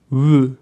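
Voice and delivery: "W" as the English w glide; lone English w sound, not the letter's name. Shown as a demonstration. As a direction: demonstrate "W" as the sound opening English loanwords. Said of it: "die Aussprache stumm oder".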